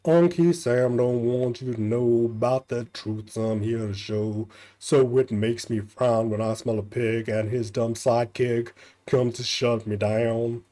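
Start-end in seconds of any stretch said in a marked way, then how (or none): 0.1-4.5 slowed-down, deliberate chant; drawn out like a proud poem; slow recited rhyme. Shown as a demonstration. Villain reciting his rhyme slowly, deliberately. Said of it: "repeat of the rhyme".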